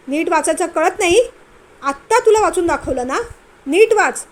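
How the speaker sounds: loud, rising angry shout at the wife; shouting angrily. Acted. Husband yelling at his wife over her reading, loud angry shout. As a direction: yell at her to read properly. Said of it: "तो जोराने ओरडला".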